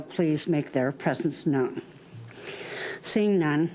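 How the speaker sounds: short of breath, slow and winded. Real, not acted. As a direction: speak through breathlessness, slowly. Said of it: "I'm out of breath".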